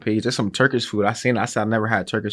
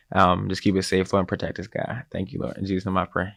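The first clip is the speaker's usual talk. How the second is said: grace before meal; 3 semitones lower than usual. Acted. Cohost saying grace over the food, earnest prayer.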